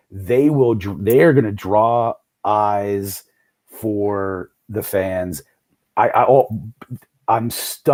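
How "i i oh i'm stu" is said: tripping over the words; stumble, restart mid-word; stammering. Real, not acted. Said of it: "I'm stammering because".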